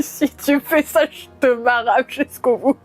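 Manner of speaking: a touch of a menacing tongue voice; tongue's threatening voice. Pretend. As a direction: threaten like a talking body part. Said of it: "la voix de ma langue qui me dit".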